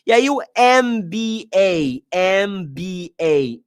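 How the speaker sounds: M B A spelled slowly, M said as "em"; letters M B A. Shown as a demonstration. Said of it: "M tem som de vogal".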